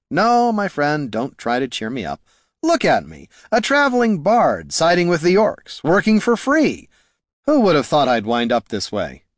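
high, swooping self-pity; theatrical, overblown lament; dramatic bard Haraldin. Acted. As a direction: wail it like a wounded performer.

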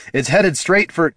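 urgent warning breaking off; rising alarm. A narrator's reading. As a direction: alarm climbing, cut short. Sudden realization of danger to Jin.

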